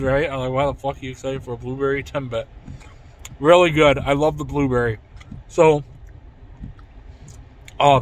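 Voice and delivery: eating a doughnut hole; talking while chewing. Real, not acted. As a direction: mouth partly full of pastry. Seen 0: bites timbit just before, holds bitten timbit, talks while chewing.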